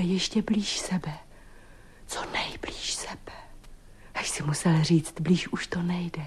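soft unvoiced whisper; intimate whisper. Woman whispering her longing to her lover. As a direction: breathe the words close to him.

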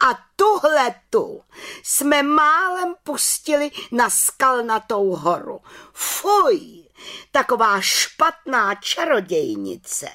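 high, scandalized exclamation; shocked disgust at the culprit; indignant outcry. Acted. Head witch denounces the little witch, high and scandalized. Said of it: "pohoršeně vykřikla".

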